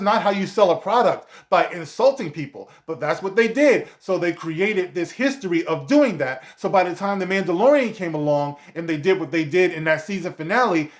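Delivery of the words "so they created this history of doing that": ordinary delivery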